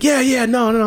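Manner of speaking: put-on high, slurred drunk mumble; imitating a drunk. Drunk customer brushing off the bartender, high and slurry. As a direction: babble like a wasted regular.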